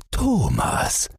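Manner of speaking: high startled cry of the name; startled call. Acted. Father suddenly spotting his son under the boat, high startled call.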